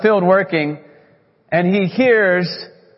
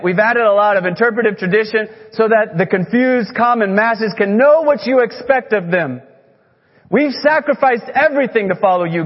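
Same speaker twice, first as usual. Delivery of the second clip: building rant. Retold or imitated. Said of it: "kinda like this".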